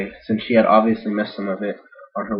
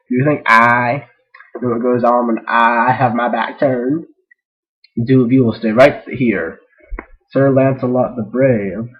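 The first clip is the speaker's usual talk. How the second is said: stern king; 3 semitones higher, 6 dB louder than usual. Acted. King scolds advisors.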